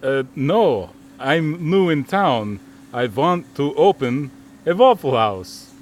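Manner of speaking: put-on Transylvanian accent. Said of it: "in a Transylvanian accent".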